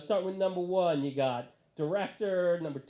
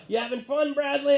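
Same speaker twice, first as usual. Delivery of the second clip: stage banter; 9 semitones higher, 6 dB louder than usual. Retold or imitated. Band checks on fan.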